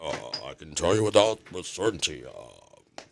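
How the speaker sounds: soft, drowsy turtle voice; nodding off. Retold or imitated. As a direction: mumble like a sleepy old turtle. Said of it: "this turtle".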